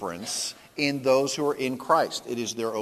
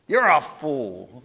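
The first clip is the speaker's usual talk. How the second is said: slow, louder scolding wife; scolding Golda; 7 dB louder, slower than usual. Retold or imitated. Golda scolds her husband, slow and loud. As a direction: scold him slowly.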